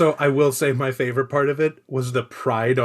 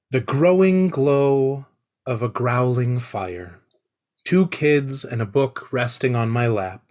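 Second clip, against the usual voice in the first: poem reading; 3 semitones lower than usual. Acted. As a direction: read it like a solemn poem. Reads his poem.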